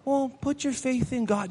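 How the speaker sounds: casual throwaway "Well, put your faith in God"; half-hearted. Shown as a demonstration. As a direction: toss it off like it hardly matters. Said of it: "we're not saying that just".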